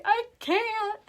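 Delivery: high, whimpering mock plea; scared refusal. Wife refusing her husband again, high scared plea. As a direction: squeak out a terrified refusal. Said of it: "I'm like".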